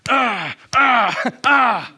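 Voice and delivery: mock exasperated "ah" noises; three short, acted groans of frustration; frustrated grunts. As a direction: grunt it out like someone fed up. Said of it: "he gets so frustrated".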